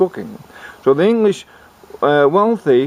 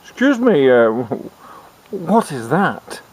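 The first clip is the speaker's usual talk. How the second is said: mock queen; 2 semitones higher, slower than usual. Queen voiced in retold story.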